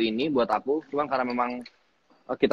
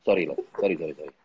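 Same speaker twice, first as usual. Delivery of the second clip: lower, fast sheepish apology; imitating director apologizing; 5 semitones lower, faster than usual. Actor mimics director apologizing after making him cry, low and quick. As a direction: mimic a boss backpedalling in a hurry. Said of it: "Lo bisa memeranin gue".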